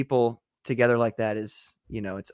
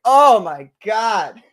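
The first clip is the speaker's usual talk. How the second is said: mock swoon; 8 semitones higher, 9 dB louder, much slower than usual. Swooning at Russian accent.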